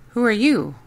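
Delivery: lightly voiced child asking. Child asks the stranger.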